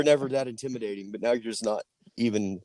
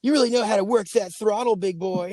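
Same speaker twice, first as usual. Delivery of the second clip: much higher, flirty purr; mock flirty; 10 semitones higher than usual. Fake admirer flirts with biker, much higher voice. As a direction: tease him like a cheesy flirt.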